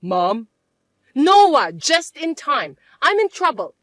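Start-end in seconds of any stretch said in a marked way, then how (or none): 1.1-3.8 urgent appeal. Acted. Mother runs to son for help.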